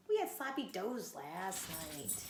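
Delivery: whining. Acted. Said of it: "he howled".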